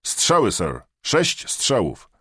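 loud, high, out of breath; loud and breathless. A narrator's reading. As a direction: bark your name into the phone, winded. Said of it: "lecz głośny i zdyszany".

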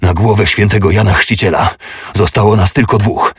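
loud battle shout. Acted. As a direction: shout it over the fighting. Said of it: "krzyknął".

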